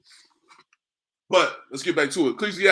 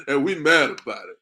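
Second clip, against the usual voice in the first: said through a laugh; laughing as he repeats it; 4 dB louder than usual. Real, not acted. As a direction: let the laugh break into the line.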